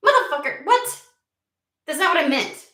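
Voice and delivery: high, loud cursing outburst; loud exasperated swearing; frustrated swearing. Real, not acted. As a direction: curse at the cards in disbelief. Swearing at the cards again.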